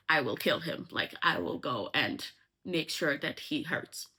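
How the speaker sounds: lightly acted vow of revenge; ominous threat, retold. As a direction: threaten in a low, understated voice. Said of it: "Not ominous at all".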